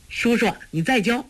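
put-on high, eager child's voice; a happy boy begging uncle; gleeful plea. A narrator's reading. Boy begging his uncle for another lesson, high and gleeful. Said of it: "托雷喜道".

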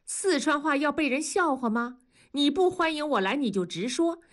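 put-on hurt, huffy old mother; offended grandmother. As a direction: bristle at the insult and threaten to leave. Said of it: "童母就沉下了脸说".

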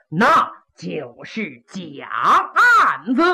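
low, smug, drawn-out taunt; the old villain taunts the court that the evidence is gone, gloating. Acted. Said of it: "这老小子叫号".

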